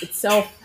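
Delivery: "itself" with the weight on "self"; stress on second syllable. Shown as a demonstration. Teacher showing learners where stress falls, "self" stressed in "itself". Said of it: "the prominent part on self".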